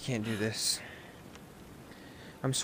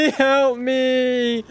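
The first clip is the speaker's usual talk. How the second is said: laughing; 10 semitones higher, 4 dB louder than usual. Real, not acted. Laughs while crying for help.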